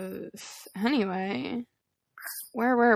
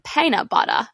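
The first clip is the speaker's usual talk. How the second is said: a light imitation of an Australian "Peanut butter." with a falling tune, "Peanut" said like "Paint" and "butter" like "batta"; a bad attempt at an Aussie "Peanut butter."; imitating Australian accent. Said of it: "I can't do it, but the way he says it".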